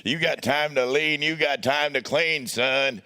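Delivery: hint of a booming roadie boss; lightly voiced big gruff boss. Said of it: "that deep, that big, deep voice".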